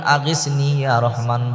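soft, hushed call on God; quiet plea. Shown as a demonstration. Preacher shows women a soft trusting call to God. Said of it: "আপনি আল্লাহকে ডাক দিবেন".

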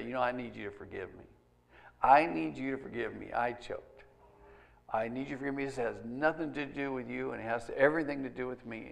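soft, low, humble confession; acted apology. Parent asking a child's forgiveness, gentle acted apology. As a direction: quietly own up, as if to your child.

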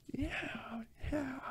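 high, whispered yeah; tiny airy mock yeah; awkward reply. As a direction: whisper a feeble, uneasy agreement. Imitating his own awkward reply.

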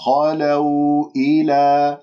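خلوا إلى slowly, with an open heavy "kha"; unrounded heavy kha. Shown as a demonstration. Teacher models the letter kha: slow, open, heavy خ in خلوا. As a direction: keep lips unrounded on the خ of خلوا. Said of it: "خ مفتوحة لا تكور الشفاه".

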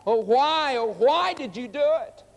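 the drowning turtle wails his question; turtle crying out. Acted. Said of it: "he cried out".

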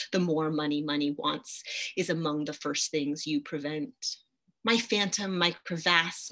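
measured, incantatory poetry recital; poem reading. Acted. Lecturer reading a debt poem to students, poem reading. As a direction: read it as a poem, pressing on through the long lines.

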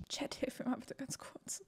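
quick whispered aside. Real, not acted. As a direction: whisper it to chat. Aside to chat, unvoiced.

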